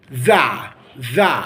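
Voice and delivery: "the" with a relaxed uh vowel. Shown as a demonstration. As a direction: say "the" as thuh, on its own. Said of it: "We all say the".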